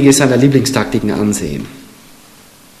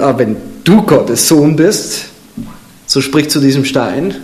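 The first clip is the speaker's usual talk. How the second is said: slow, drawn-out taunting devil; mocking devil tone. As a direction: sneer it like the devil testing him. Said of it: "So mit dieser Betonung".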